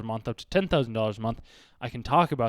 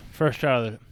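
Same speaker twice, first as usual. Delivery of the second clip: wearing a retainer; 4 dB louder than usual. Real, not acted. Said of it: "got my retainer in".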